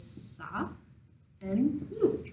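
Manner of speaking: "sa" and "lu" said apart, final t silent; syllable by syllable. Shown as a demonstration. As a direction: break "sa" and "lu" apart slowly.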